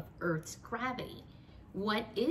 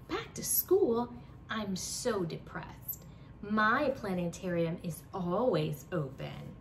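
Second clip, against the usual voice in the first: mock complaint; slower than usual. Janet complaining, voiced.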